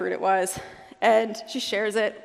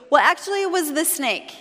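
sheepish blame; 5 semitones higher than usual. Retold or imitated. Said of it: "And she goes".

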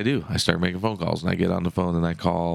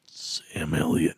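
Sam Elliott; much slower than usual. Retold or imitated. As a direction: drawl it slow like an old cowboy.

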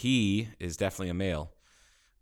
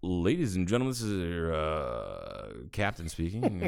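airline captain announcement. Pretend. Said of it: "announce it like a flight attendant".

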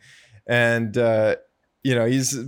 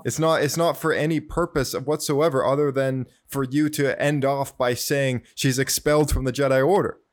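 mildly exasperated retelling of an accusation; lightly acted fed-up protest; frustrated; 2 semitones higher than usual. Anakin accuses the Council of planning expulsion, mildly frustrated. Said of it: "he's just so frustrated".

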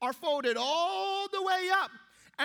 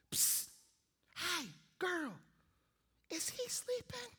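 mock whisper; 2 semitones higher, 9 dB quieter than usual. Seatmate whispering while he sleeps.

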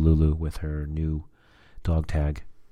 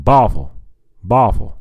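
loud, slightly raised dog call; really loud calling; 3 semitones higher, 7 dB louder than usual. Retold or imitated. Owner calling a deaf, lost dog, loud call. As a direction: call "Boffle" out down the street. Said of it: "really loud".

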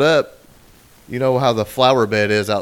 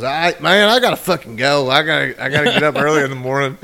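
louder, higher rushed exit line; hasty excuse; 3 semitones higher, 5 dB louder than usual. Retold or imitated. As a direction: blurt it out to get away fast. Landlord hastily leaves after awkward question.

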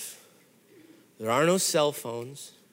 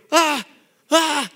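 high, loud happy yelps; excited cry; 9 semitones higher, 5 dB louder than usual. Retold or imitated. Boy running to his mom with loud yelps. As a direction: yelp with relief.

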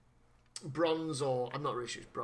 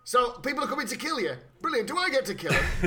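gleeful Kincaid; 6 semitones higher, 4 dB louder, faster than usual. Retold or imitated.

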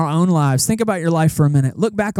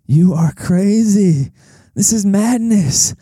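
incredulous; 3 semitones higher, slower than usual. Retold or imitated. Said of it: "I'm like".

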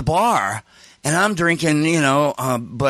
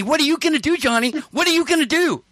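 very high, insistent imitated questioning; hammed-up catty dare; taunting challenge; 12 semitones higher, faster than usual. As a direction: needle him, pressing for an answer. Taunting challenge in acted quarrel.

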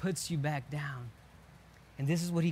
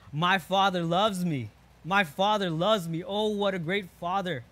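put-on louder, joyful exclamation of a child who feels loved; joyful cry out; 5 dB louder than usual. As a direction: call it out with happy wonder. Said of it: "you want to cry out".

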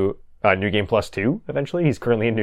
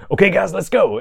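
high-pitched mock yell; excited mock battle cry, much higher; retold yell; 10 semitones higher, 4 dB louder than usual. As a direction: imitate a gamer yelling out to the team. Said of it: "yells out something like".

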